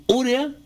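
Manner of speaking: "urea" stressed on the first syllable; esdrújula stress. Shown as a demonstration. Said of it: "con acento en la U". ("urea" con acento en la U)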